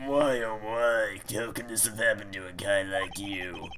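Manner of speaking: grittier voice. Showing the listener the second of two voices given to them: the grittier voice. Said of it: "So I'll give you the grittier voice".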